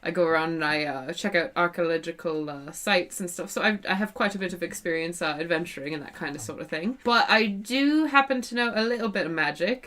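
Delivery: put-on soft, hesitant New Zealand accent; a light New Zealand lilt. Historian introduces herself, in a soft New Zealand accent. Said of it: "that was totally a weird accent that I just slipped into".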